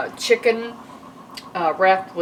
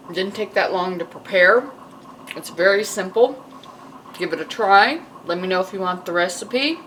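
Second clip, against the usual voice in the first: mouth full; 3 dB louder than usual. Real, not acted. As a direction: still chewing while talking. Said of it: "Sorry, I'm still chewing".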